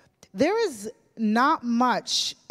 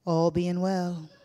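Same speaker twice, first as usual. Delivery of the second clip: slow, dry and unmoved; deadpan; 3 semitones lower, slower than usual. Retold or imitated. Nana answering the eager newlywed, slow and deadpan. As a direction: drop it flat and dry, no smile. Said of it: "sort of deadpan".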